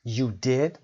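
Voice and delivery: "did" rising with disbelief; mild surprised lift on "did"; surprised you did. Shown as a demonstration. Teacher modelling surprise at a ghost dream.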